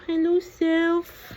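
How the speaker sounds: slow, drawn-out greeting; playful cooing. Pretend. Parent greets for baby looking at self, cooing.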